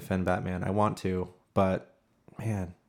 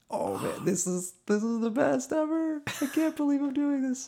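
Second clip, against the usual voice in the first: much higher, giddy with disbelief; thrilled fanboy. Retold or imitated. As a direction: gush like a starstruck kid. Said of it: "I was just like".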